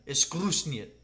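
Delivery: lightly put-on Russian accent; mock-Russian, tossed off briefly. Player giving an accent clue, light Russian accent.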